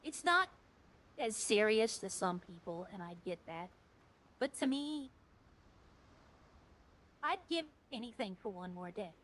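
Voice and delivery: choked up and quiet, holding back tears; fighting to keep the voice steady; emotional. Real, not acted. Streamer to chat about his lost best friend, choked up. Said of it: "I'm getting a little emotional".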